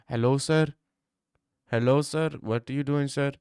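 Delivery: lightly put-on Indian accent. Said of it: "Instead of speaking like that in India".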